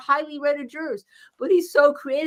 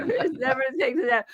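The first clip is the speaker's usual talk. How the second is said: giggling through the words; laughing; 3 dB quieter than usual. Real, not acted. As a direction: read the comment while laughing. Repeats a listener's comment laughing.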